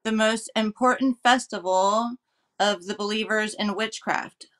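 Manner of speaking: measured read-aloud of a history passage. Acted.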